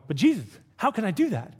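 mock-fretful congregant; anxious objector. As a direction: plead like a busy believer overwhelmed. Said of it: "some of you may be going".

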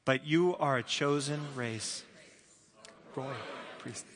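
slow reading, weight on "chosen" and "royal"; deliberate pace, "chosen" drawn out for emphasis. Shown as a demonstration. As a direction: lead a group reading, stressing "chosen" and "royal". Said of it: "I would emphasize the word chosen, royal".

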